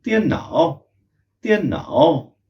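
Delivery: त्यन नाओ said as one quick joined word; without a pause. Shown as a demonstration. Teacher shows the word without a pause. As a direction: glide त्यन into नाओ with no break. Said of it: "बिना pause के हमें बोलना है".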